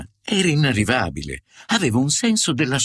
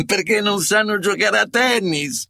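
higher-pitched riddle delivery, rising into the punchline; hammed-up riddle with a raised punchline; mock joke-telling; 7 semitones higher than usual. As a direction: pitch the taunting joke up high. Reads out a taunting riddle joke.

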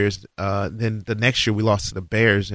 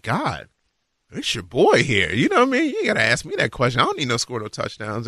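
playful boast, pitched up; cocky reassurance; 3 semitones higher than usual. Retold or imitated. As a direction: brush off the question like a cocky kid. Quoting himself to God.

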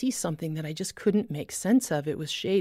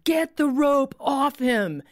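slow, loud, higher commanding shout; retold shout; 6 semitones higher, 4 dB louder, slower than usual. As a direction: bark the order slowly and loud. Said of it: "the Holy Spirit shouting".

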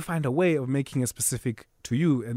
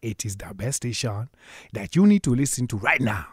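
Nigerian accent; 4 dB louder than usual. Shown as a demonstration.

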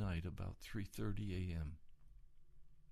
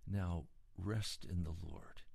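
slow, soothing self-talk; 4 semitones lower, slower than usual. Retold or imitated. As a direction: lower and slow, calming. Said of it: "I said to myself".

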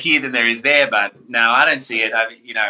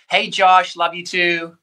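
excited shout-out; 5 semitones higher, slower than usual. Real, not acted. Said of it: "while we're shouting people out".

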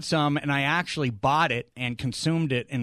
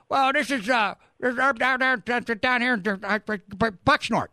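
Southern caller; 6 semitones higher than usual. Retold or imitated. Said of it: "southern draw".

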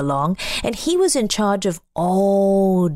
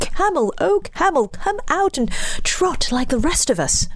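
horse voice; 9 semitones higher than usual. Acted. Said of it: "the horse came to him".

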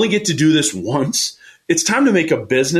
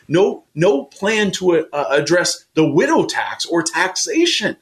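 passionate emphasis; 5 semitones higher than usual. Real, not acted. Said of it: "hear the passion in my voice".

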